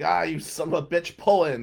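imitated irritation; mock pissed off. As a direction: act out annoyed mechanics cursing a customer. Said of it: "They're really pissed off I pull in there".

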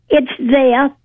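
"there" set out with emphasis; stress on THERE. Retold or imitated. Caller quotes a teacher introducing a doll, stress on "there". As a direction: lean on "there" as the key word. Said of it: "emphasis on the word there".

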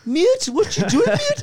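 high, loud mock-angry yell; Barry. Friend bursting into a solo game, imitated angry shout. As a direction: imitate an irate gamer shrieking over voice chat. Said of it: "he gets so angry".

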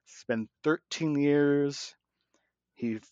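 slow hushed whisper; dramatic whisper. Acted. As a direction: whisper it like a big reveal. Dramatic buildup to Avatar two.

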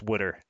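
"wooder" for water, WOOD-er; imitated Philly pronunciation. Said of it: "my brother-in-law says wooder".

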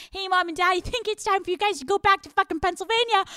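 high, mock-sweet hint to parents; passive aggressive. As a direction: pitch it high, falsely polite. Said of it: "when you are being passive aggressive".

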